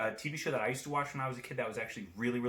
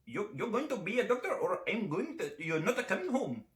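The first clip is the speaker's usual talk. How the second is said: high-pitched caricature of a parent; mock demanding parent; 6 semitones higher than usual. Parents of future doctors laying down the law, hammed-up voice. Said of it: "That's what they sound like".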